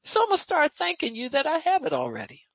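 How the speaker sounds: high, fast, confident praying to God; mock believer thanking God for what is already given; bold prayer. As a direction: claim it boldly in prayer. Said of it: "we get to say".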